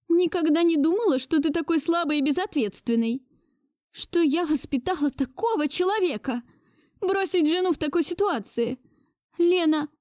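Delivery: put-on high, reproachful old lady; indignant grandmother. A narrator's reading. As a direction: shame him as a disappointed grandmother. Grandmother voiced higher. (возмущённая бабушка)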